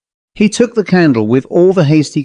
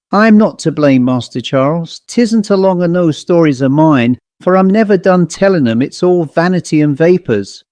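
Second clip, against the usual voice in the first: put-on a lightly raised, earnest old servant; old butler's voice; 4 semitones higher than usual. Old butler Cooper pleads with Master Charles, lightly voiced. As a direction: protest your innocence to the master, a touch higher.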